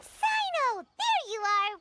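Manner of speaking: calling out. Acted. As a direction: hail him from a distance. Calling out on finding Sino.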